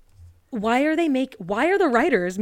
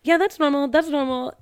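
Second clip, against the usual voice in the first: breezy higher mock commenter; mock reassurance; 6 semitones higher, 4 dB louder than usual. Commenters reassure the poster, breezy mock tone. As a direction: brush it off like a commenter. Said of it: "everyone in the comments is like".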